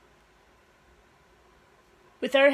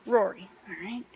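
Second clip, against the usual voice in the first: put-on Australian accent; 4 semitones lower, 5 dB quieter than usual. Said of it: "Rory from Down Under".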